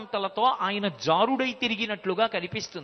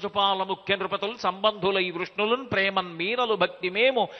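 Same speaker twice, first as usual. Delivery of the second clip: verse recitation. Acted. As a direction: chant the padyam in a measured, sing-song recital. (పద్యం రాగయుక్తంగా చదవడం)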